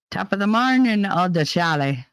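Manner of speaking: a lightly done Irish brogue; mock Irish greeting, barely shifted; bad Irish accent. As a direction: ham up a terrible Irish accent. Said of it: "That was a terrible accent".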